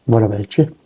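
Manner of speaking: lightly imitated Northern Irish drone; monotone Northern Irish. Shown as a demonstration. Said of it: "some of them are quite monotone".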